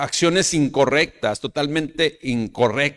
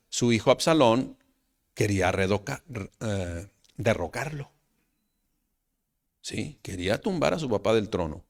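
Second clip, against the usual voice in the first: ordinary delivery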